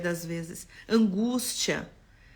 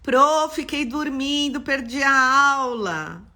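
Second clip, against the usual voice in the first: imitating a sleepy student, a bit higher and louder; mock whiny student excuse; 4 semitones higher, 5 dB louder, slower than usual. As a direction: whine the excuse like a late student. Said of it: "vocês estão me mandando direct".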